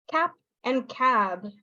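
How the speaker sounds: slow demo, short CAP then lengthened CAB; vowel length contrast. Shown as a demonstration. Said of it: "difference in the vowel length".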